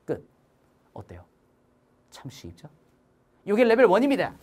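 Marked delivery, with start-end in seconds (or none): 0.9-2.7 soft catchphrase. Acted. Teacher's catchphrase after drill.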